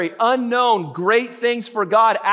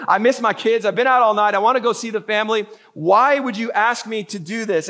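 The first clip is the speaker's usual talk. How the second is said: imagined Peter complaining. Retold or imitated. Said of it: "I'm sure he's like".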